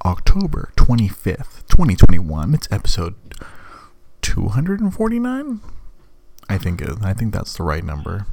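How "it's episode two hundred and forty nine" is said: whispering. Real, not acted. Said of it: "I have to keep my voice down".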